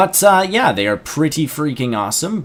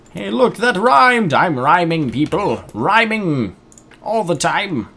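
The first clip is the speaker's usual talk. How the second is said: high, loud and gleeful; excited; 7 semitones higher, 5 dB louder, slower than usual. Real, not acted. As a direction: crow about the rhyme. Gleeful at accidental rhyme.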